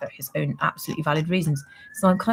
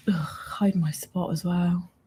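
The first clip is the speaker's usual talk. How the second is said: whisper; 6 dB quieter, much slower than usual. Real, not acted. Embarrassed about her looks on camera.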